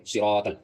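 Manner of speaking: "صراط ال" said sirot-al with full heavy ص; dark, rounded "صراط ال"; thick ص. Shown as a demonstration. Teacher repeats the correct model, thick ص. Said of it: "سین کو تھوڑا موٹا کر کے پڑھیں گے".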